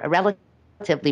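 "relatively" repeated with deliberate emphasis; stress on relatively. Real, not acted. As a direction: press the qualifier "relatively". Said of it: "I'm emphasizing the word relatively".

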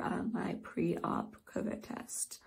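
breathless, panicky whisper; gasping for air between words; hyperventilating. Real, not acted. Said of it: "I'm kind of having a panic attack right now".

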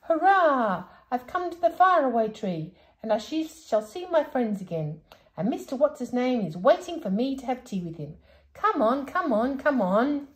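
put-on old man rushing to see his friend; shouting in delight. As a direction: cheer out happily. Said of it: "shouting in delight".

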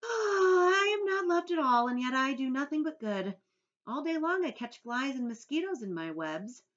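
a high, loud, crying wail of self-pity; loud sighing lament. A narrator's reading. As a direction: let the sigh break into a mournful complaint. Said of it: "sighing long and loud".

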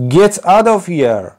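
high, slow read-aloud scream; old man screaming. A narrator's reading. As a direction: shout it as the angry old man. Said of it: "screamed the old man".

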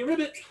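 high, quick ribbit; frog noise. Shown as a demonstration. Coach calling animal sounds for stretch kicks, frog ribbit. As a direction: ribbit lightly on the kick. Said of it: "only doing animal sounds".

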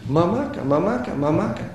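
lightly voiced toddler calling mummy; rising little calls, imitating a small child; retold child's calling. Small child calls to dead mother at her grave, retold calling. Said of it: "και να φωνάζει".

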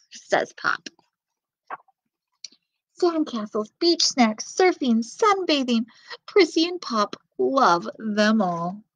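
lively storybook reading voice; reading to children. Acted. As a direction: read it to little kids. Reads picture book to children.

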